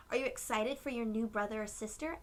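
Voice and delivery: a quick, friendly clerk question; lightly voiced chatty shop clerk; paint guy asking. The paint guy asking Aiden, quick and friendly. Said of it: "asked the paint guy".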